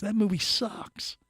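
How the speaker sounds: hushed, breathy put-down; whispered aside. Real, not acted. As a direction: whisper it like a secret jab. Muttered aside about bad movie.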